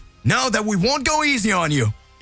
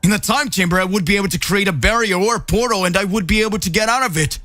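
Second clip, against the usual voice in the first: frustrated trapped hero; 4 semitones higher than usual. Acted. Goku trapped and furious.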